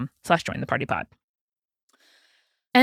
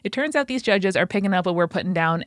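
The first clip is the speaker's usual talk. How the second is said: ordinary delivery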